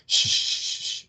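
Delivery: long, soft shushing; mock soothing hush. Acting Riley quieting the dying Slayer, mock soothing hush. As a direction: hush her with drawn-out shushes.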